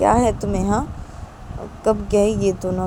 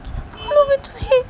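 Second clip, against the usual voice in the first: hushed aside; 3 dB louder than usual. Acted. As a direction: confide to Rahul on the side. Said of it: "Ravi Rahul को धीरे से बोलते".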